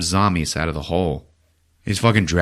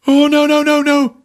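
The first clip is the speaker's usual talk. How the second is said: despairing no; 6 dB louder than usual. Retold or imitated. Fears friend is dead.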